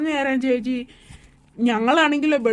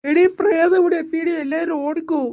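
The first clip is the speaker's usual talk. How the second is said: alarmed yell to flee; panicked shout; 4 semitones higher than usual. Acted. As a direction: scream a warning to everyone. Panic at the ghost.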